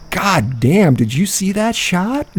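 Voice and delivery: put-on high, thrilled whoop from the boys; excited cheer. Boys cheering the apple throw, high thrilled whoop.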